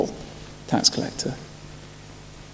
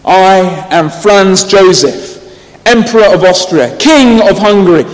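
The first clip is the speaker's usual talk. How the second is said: lightly voiced stately announcement, slow and louder; herald proclaiming; 5 semitones higher, 6 dB louder than usual. A narrator's reading. Herald announcing the dead emperor at the door, stately. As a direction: announce the emperor's titles with ceremony. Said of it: "he answered on behalf of".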